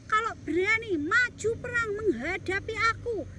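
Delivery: high, loud taunting giant; giant shouting. Acted. The giant taunts Israel's soldiers, shouting. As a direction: bellow a challenge across the battlefield. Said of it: "Si raksasa itu berteriak-teriak".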